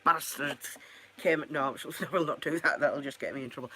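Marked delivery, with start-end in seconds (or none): 0.0-1.4 mock Scottish accent, lightly done; half-hearted Scots, soon abandoned; put-on Scottish accent. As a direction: slip into Scottish for a joke. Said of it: "Don't let me do accents".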